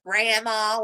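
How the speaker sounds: imitating the mother-in-law, saying "Grandma" as a playful jab; mock insult. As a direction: tease her with "Grandma" as if it stings. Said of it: "like it's an insult".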